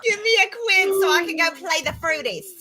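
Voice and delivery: Cockney accent. Shown as a demonstration. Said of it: "you just said that in a southern accent".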